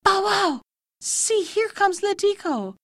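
high, slow, singsong dog call. A narrator's reading. Dog heralding Letiko's return, calling out. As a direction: bark the words out high, then announce slowly. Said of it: "the dog knew her and called out".

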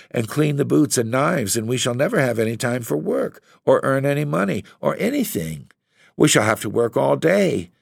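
Laura pouring out her worry to her husband; anxious young wife voiced high; upset young wife.

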